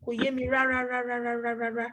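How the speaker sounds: RÁRÁ repeated in an unbroken chain on an even tone; emphatic repetition. Shown as a demonstration. Teacher showing students how to pile up rárá, emphatic repetition. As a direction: run rárá, rárá, rárá together for emphasis. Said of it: "repeat the rárá for as much as you want".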